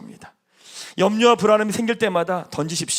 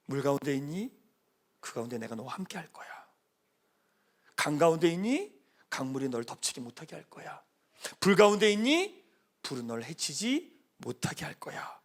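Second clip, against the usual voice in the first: tender voice of God; 3 semitones lower, 6 dB quieter than usual. Acted. Pastor voicing God reassuring believers in fire and flood softly. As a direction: comfort the listener gently as God.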